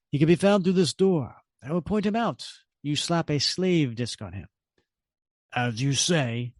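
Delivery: lightly voiced scheming villain; a hint of a cold mastermind giving orders; Red Skull. Red Skull briefs the controller, lightly voiced villain.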